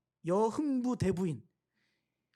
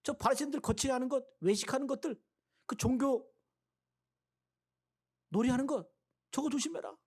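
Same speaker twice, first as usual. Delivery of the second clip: Jesus warning again; 5 semitones higher than usual. Acted. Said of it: "그러니까 나쁜 거 빨리 배우니까".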